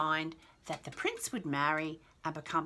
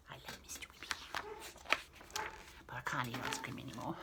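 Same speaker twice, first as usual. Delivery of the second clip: whispering; 7 semitones lower, 10 dB quieter, much faster than usual. Real, not acted. Whispered joking aside.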